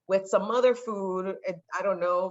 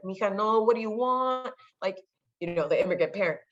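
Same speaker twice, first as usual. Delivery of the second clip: nurturing mom; 3 semitones higher than usual. Retold or imitated. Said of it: "my mom was really nurturing".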